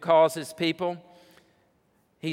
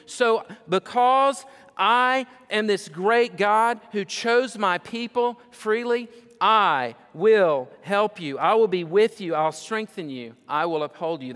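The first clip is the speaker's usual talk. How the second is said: booming preaching climax; 7 semitones higher, 5 dB louder than usual. Acted. Preacher thundering God's promises at the congregation, booming. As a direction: drive each promise home with full force.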